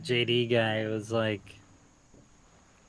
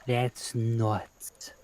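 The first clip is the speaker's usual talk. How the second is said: hushed whisper of amazement; awed whisper. Retold or imitated. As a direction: breathe it out in awe. Quoting friend's amazed reaction.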